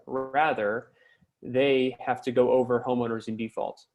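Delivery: usual speaking voice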